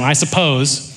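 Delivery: lightly grudging mock agreement; sarcastic. Pharisee grudgingly answering the question, sarcastic. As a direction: concede it with a touch of sarcasm. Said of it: "You can hear the sarcasm".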